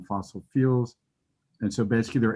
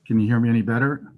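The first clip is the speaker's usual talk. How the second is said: louder, quicker check to be heard; raised voice; 5 dB louder, faster than usual. Real, not acted. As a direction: speak up so they can hear you. Asked to speak up, tests voice.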